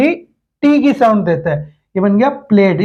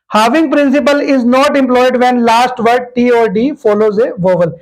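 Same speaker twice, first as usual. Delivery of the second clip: slow dictation; much slower than usual. Shown as a demonstration. Reading the rule out slowly.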